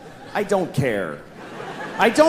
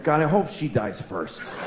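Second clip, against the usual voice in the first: quiet inner thought; 3 semitones lower, 5 dB quieter than usual. Retold or imitated. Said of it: "I always think".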